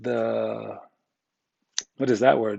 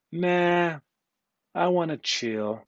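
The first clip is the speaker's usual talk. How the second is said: lazy mock refusal; 4 semitones higher, 5 dB quieter, much slower than usual. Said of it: "and if you were like".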